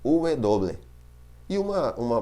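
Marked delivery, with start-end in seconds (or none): 0.0-0.8 "W" said as "uve doble"; name "W" the Spanish way, "uve doble"; Spanish letter name. Shown as a demonstration. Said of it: "em espanhol ela não chama W".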